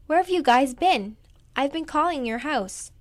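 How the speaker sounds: a hint of a worried aunt; lightly voiced anxious aunt.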